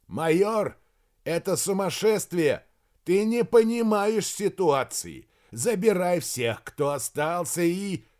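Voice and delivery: high, exasperated calling; shouted protest. A narrator's reading. (возмущённо, повышенным голосом)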